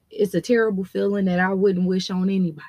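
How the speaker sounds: talking while chewing gum; words around a wad of gum. Real, not acted. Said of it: "I got gum in my mouth".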